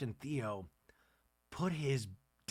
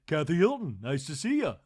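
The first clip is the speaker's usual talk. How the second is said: louder quick introduction; brisk self-introduction; Kathy's greeting; 7 dB louder than usual. Retold or imitated. Kathy introducing herself at a party, brisk. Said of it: "And Kathy said".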